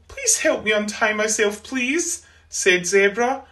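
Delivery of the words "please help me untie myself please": pleading. Acted. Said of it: "cried Cardwell".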